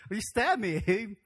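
slow, stretched mock accusation with a laugh; hurt Isaac, drawn out. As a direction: drag it out in mock outrage. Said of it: "what if we were Isaac".

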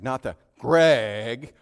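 a loud, slow scolding call of the name; scolding Greg. Shown as a demonstration. Pastor contrasting wife's call, scolding Greg. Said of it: "that, that Greg".

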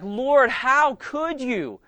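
high, desperate begging; tearful pleading prayer. Acted. Panicked churchgoers praying to be saved, tearful high pleading. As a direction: plead urgently, piling up each please. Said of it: "weeping and crying and like".

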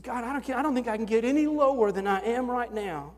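humble broken plea; desperate prayer retold. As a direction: cry out to God from rock bottom. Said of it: "And I said".

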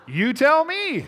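high, drawn-out taunt; cheeky defiance. Retold or imitated. Student to the professor who demands his name, cheeky defiance.

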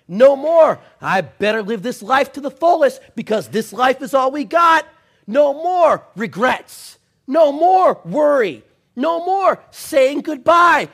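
shouted, high, slow preaching litany; fiery revival preacher crying out; preaching at full force. Real, not acted.

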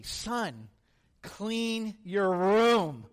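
very slow, every word drawn out with awe; treasured words savoured slowly; reverent slow quote. Retold or imitated. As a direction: say it like holy scripture. Kid reverently quotes dad to friends.

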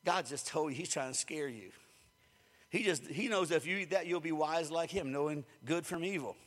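low, hushed tempting murmur; a quiet coaxing snake in the garden; hushed serpent voice. Retold or imitated. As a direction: lean in and tempt them softly like the serpent. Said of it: "the snake whispered to them and said".

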